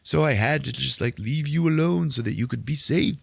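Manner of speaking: high, pleading character voice; overwrought old rebel. Retold or imitated. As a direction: justify yourself in a put-on voice. Saw's character voice continues.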